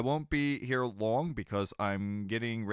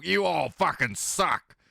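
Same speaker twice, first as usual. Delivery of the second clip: slow, loud, higher teasing yell; mock yell; 7 semitones higher, 5 dB louder, slower than usual. Friend waking for work yells at the chat, loud mock yell. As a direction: bellow it at the whole chat. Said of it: "and go".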